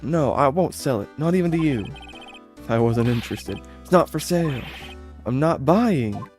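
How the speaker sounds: cool, proud refusal; haughty woman voice. Acted. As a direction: play a snooty rich lady turning him down.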